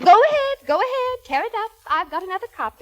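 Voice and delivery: high, defiant dare; defiant outburst. Acted. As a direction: throw it back at him, daring him. Wife in heated quarrel.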